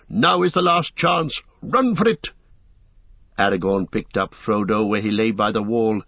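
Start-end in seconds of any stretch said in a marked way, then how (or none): 0.1-2.3 high, urgent shouted command. A narrator's reading. Gandalf ordering the fellowship to run, shouting high. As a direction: yell it rising toward panic. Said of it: "shouted Gandalf".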